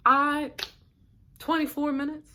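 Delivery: high, loud disbelieving outburst; incredulous. Retold or imitated. Outraged at the wait time.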